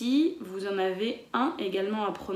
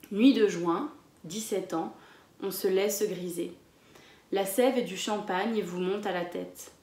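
poem read to a class; poem recital. Acted. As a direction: recite the verse with care. Reads the poem aloud.

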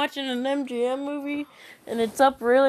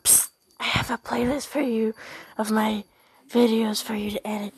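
hushed secret whisper. Retold or imitated. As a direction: lean in and whisper it. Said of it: "Slides next to you. Psst".

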